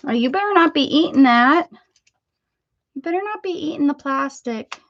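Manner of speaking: loud warning to the dog; sharp owner's telling-off; scolding the dog. Real, not acted. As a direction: catch the dog chewing plastic, scold it. Dog chewing plastic, scolding.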